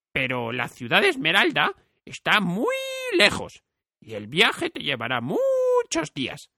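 a lightly voiced kindly man, grave; grave old Bob. A narrator's reading. Bob warns Dorothy the journey is long, gravely. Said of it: "repuso Bob con gravedad".

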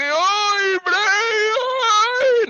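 high yelping cry of fright; frightened cry. Pretend. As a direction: yelp as something grabs him. Attacked by zombie at door.

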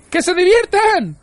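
slow, drawn-out, very high yell; outraged shriek. A narrator's reading. Arthur fuming at Ford's calm advice, drawn-out outraged shriek. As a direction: stretch each word out in a high scream.

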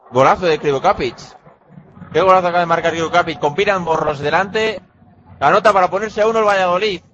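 fast, rising goal call; breakneck goal commentary. Real, not acted. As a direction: rattle off the goal excitedly. Goal scored in handball commentary.

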